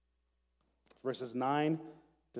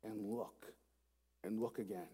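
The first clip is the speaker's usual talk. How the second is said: softening repetition; 4 semitones lower, 10 dB quieter than usual. Shown as a demonstration. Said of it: "We want to look".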